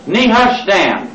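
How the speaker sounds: Nehushtan drawn out slowly, ne-HUSH-tan. Shown as a demonstration. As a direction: sound out Nehushtan slowly for the crowd. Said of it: "And the next one".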